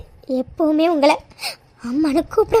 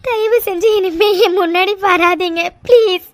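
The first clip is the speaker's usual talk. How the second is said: tearful. Acted. Daughter begging them to leave.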